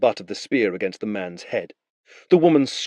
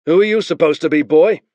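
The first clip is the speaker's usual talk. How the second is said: higher, louder scornful question; Marek questioning; 7 semitones higher, 7 dB louder than usual. Acted. Marek questions the captured boy, scornful. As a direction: size the boy up. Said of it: "Marek asked".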